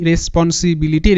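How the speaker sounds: slow, connected syllables with a final rise. Shown as a demonstration. Teacher links the syllables for students, slowly joined up. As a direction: say রেসপন্সিবিলিটি whole but measured, tune left open. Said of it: "এরকম করলে কিন্তু ধীরে ধীরে clear".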